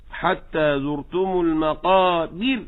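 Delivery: المقابر stressed late, slow and rising; thin the ra but stress المقابر late; wrong stress. Shown as a demonstration. Teacher imitates the over-careful reciter. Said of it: "وأخطأ في نبرة الكلمة".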